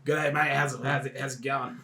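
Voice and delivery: put-on broad Australian accent, lightly done; a hint of an ocker tourist greeting; bogan Aussie accent. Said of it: "Just have, like, the most bogan accent".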